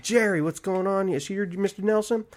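high, breezy reporter hail; retold bluffing hello; chummy greeting. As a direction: greet him like you belong here.

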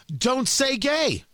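slow, mocking protest chant; mocking scream. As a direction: sneer out the slogan like a protester's chant. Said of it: "They just scream it".

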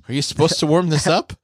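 mock innocent surprise; high naive question. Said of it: "I'm like".

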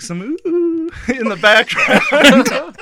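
slow, giggly words through laughter; can barely get it out for laughing. Real, not acted. Describing the song's backing vocals, laughing.

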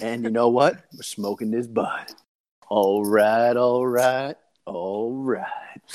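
lightly imitated catchphrase, fading to a whisper; hint of a laid-back movie-star impression; Matthew McConaughey. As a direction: do the actor's drawn-out catchphrase, trailing into breath. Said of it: "and he goes".

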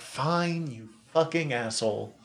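grudging acceptance. Retold or imitated. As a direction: imitate giving in reluctantly, under your voice. Voices everyone else's grudging acceptance.

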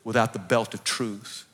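low-pitched, subdued prayer; earnest prayer. Acted. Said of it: "I pray".

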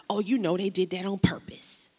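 the enemy's voice. Retold or imitated. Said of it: "Here's how it sounds sometimes".

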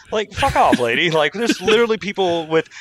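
sharp high fuck off; exasperated outburst. Real, not acted. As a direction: snap at her, fed up.

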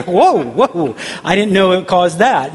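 mock-startled whoa, voice swooping up; startled reaction. Viewer hearing the drug's side effects, mock-startled. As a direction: play a taken-aback viewer, lightly.

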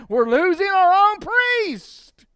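high, loud mock outcry of the priests; high and loud, slow protest; angry Sanhedrin. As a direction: cry out as the indignant council. Sanhedrin voiced in retelling.

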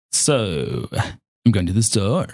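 fry on so, then upspeak; vocal fry and upspeak. Shown as a demonstration. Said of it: "combine that with vocal fry and upspeak".

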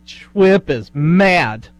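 put-on slow, babyish lisp. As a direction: lisp it like a toddler. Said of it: "you started talking in your baby voice".

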